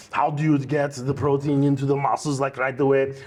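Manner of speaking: lightly voiced Austrian strongman; a hint of muscleman impression; Arnold Schwarzenegger. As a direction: imitate a bodybuilder with an Austrian accent. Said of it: "if I could interview Schwarzenegger".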